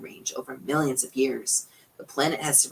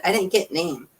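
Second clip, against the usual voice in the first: distant radio voice; 5 semitones higher than usual. A narrator's reading. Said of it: "The voices sounded distant, scratchy".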